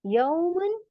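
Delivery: slow, clear tajweed recitation; simple recitation. Shown as a demonstration. Teacher modelling izhar for students, slow and clear. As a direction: recite यौमुन अजीमुन slowly with a clear n. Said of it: "simple".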